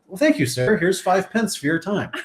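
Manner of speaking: high, slowing polite urchin voice; Tiny Tim. Acted. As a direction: thank them like a little game hero. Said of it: "that's my Tiny Tim, uh, accent".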